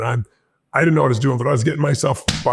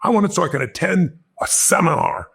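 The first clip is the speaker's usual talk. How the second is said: 1 eager pitch; 4 semitones higher than usual. Retold or imitated. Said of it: "with all the energy I had".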